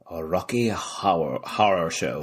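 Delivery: Northern Irish vowels, slow; Rocky Horror in a Belfast accent. Real, not acted. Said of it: "I think it's our accent".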